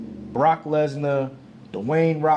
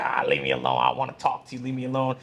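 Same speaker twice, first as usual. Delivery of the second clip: lightly voiced grump, grumbling; Grinch; faster than usual. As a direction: imitate a grouch waving someone away. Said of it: "like the Grinch".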